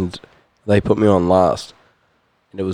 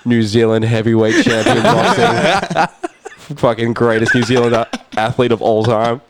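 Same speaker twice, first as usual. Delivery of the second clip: laughing in disbelief. Retold or imitated. Starstruck fan re-living spotting his hero, laughing. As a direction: rattle off his titles while laughing in awe.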